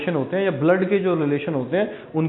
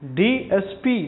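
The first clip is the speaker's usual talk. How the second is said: slow pronunciation; 2 semitones higher, much slower than usual. Shown as a demonstration. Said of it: "तो क्या आएगा".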